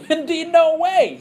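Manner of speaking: high, loud emphatic refusal; Paul shouting no way. Retold or imitated. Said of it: "He says emphatically".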